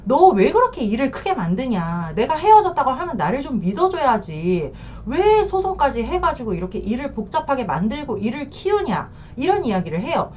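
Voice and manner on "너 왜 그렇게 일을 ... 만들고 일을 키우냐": mildly heated reproach; retold angry scolding. Husband berating wife over the lawsuit, mildly angry. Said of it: "화가 나가지고 집에 와서 막 난리 법석을 떨면서".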